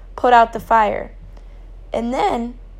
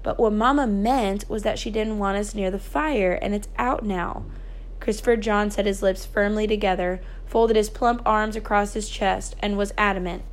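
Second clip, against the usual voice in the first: measured storytelling with lightly voiced dialogue; story narration; 3 dB quieter than usual. A narrator's reading. A narrator reads the children's night of the fire, storytelling. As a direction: read aloud as a novel's narrator.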